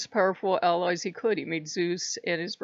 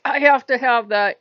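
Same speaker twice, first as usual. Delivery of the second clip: greedy want; 4 semitones higher, 9 dB louder than usual. Retold or imitated. Apollo craves the lyre.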